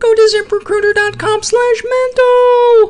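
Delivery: very high-pitched voice. Podcast host doing the sponsor read one more time: really high voice. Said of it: "let's do one more time in a really high voice".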